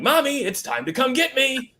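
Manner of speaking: high, laughing through the yell; laughing announcer yell. Retold or imitated. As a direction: crack up mid announcer call. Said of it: "here I am yelling".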